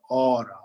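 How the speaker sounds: ora with one tapped r; flipped R in ora. Shown as a demonstration. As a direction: flick the tongue once for the r in ora. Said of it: "flip the R".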